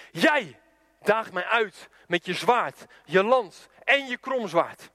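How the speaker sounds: slow, weighty Bible reading; solemn declamation. Acted. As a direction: deliver each weapon as a measured challenge. Declaims David's Bible reply. (plechtig en langzaam declamerend)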